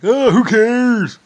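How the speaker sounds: high, slow, dismissive shrug of a line; mock careless elders, high and drawn out; dismissive old folks. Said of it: "they're like".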